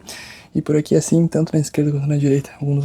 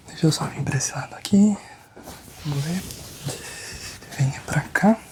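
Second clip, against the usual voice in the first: soft whisper to the patient; 4 dB quieter than usual. Acted. Chiropractor whispering to the patient while moving round. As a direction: breathe the words close.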